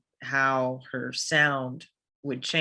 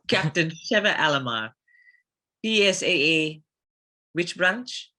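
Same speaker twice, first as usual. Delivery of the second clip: African accent. Shown as a demonstration. Reciting Sheva's title in an African accent on request. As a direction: roll out the name and title in a thick African accent. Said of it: "could you say, uh, Captain Sheva Alomar".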